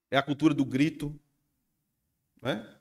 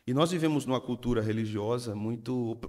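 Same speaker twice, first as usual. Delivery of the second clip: ordinary talk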